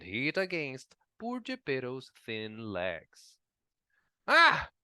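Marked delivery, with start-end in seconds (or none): 4.3-4.7 pained cry. A narrator's reading. Wood hits Geppetto's legs.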